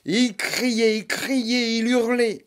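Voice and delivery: high, loud wailing telling; screaming narration. A narrator's reading. Narrator echoing the monster's howls, high and loud. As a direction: let the screaming fill the words.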